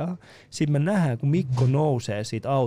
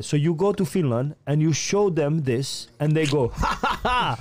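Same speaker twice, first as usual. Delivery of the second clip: imitating the policeman; slower than usual. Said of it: "Sit se oli silleen".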